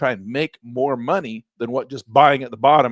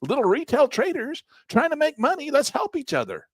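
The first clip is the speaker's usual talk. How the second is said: retold retort; 10 semitones higher, 4 dB louder than usual. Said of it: "And I'm like".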